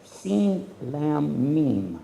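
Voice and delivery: name each Arabic letter of "silm" slowly; spelling out the letters. Shown as a demonstration. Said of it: "is from silm".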